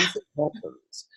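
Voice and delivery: tense jaw, talked through clenched teeth. Shown as a demonstration. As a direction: jaw locked tight, words squeezed out. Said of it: "talking through clenched teeth, you know, rather like this".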